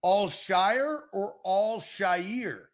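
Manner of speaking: "Al Shire" said slowly, twice, set side by side; two pronunciations compared. Shown as a demonstration. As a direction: weigh "Al Shire" against "Al Shire", slowly. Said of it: "Is it".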